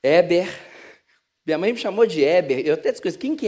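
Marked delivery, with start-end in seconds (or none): 0.0-0.5 loud, short motherly call; mãe chamando. Retold or imitated. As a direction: call your child sharply by name. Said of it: "é aquela que fala assim". (mãe chamando o filho)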